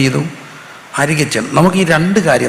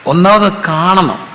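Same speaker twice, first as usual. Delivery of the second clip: ഒന്നാമത് stretched slow and higher, then കാണണം falls; slow emphatic point; 4 semitones higher, much slower than usual. Acted. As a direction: lay down the first step, slowly. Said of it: "preacher stresses first step". (ഒന്നാമത് കാണണം പതുക്കെ ഊന്നി)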